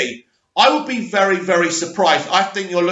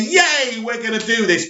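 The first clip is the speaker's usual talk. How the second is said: higher-pitched mock cheer; imagined cheer; 4 semitones higher than usual. Actors agreeing over dinner to the plan, light mock cheer. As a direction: voice their delighted yes, pitched up.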